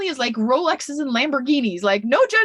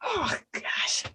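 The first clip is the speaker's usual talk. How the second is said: breaking into a whispered sob; real tears catching the voice; overcome, gasping out the words; choked up; 7 semitones higher, 8 dB quieter than usual. Real, not acted. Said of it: "I might get emotional right now".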